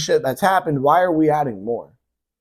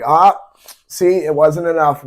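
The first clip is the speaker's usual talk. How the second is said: mocking lawmakers; 6 dB louder than usual. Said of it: "they're like".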